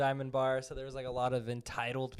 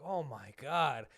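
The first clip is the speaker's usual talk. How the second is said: imitated exasperation; 2 semitones lower, 3 dB quieter, slower than usual. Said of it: "He started rolling his eyes".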